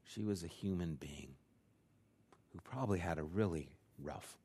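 soft, breathy hushed close to the sermon; hushed whisper. Real, not acted. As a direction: drop to a near whisper to land the point. Solemn closing point of sermon.

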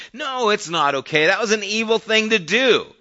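forceful, high-pitched insistence; emphatic rebuttal. Real, not acted. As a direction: push pitch and volume up in firm correction. Preacher rebuts the mock dismissal.

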